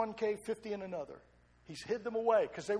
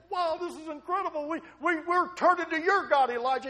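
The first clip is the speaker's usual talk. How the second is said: high, loud, excited exclamation; stunned onlookers hailing Elijah's God; amazed crowd; 9 semitones higher, 7 dB louder than usual. Acted. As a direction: cry out in wonder. Crowd's amazed conversion cry.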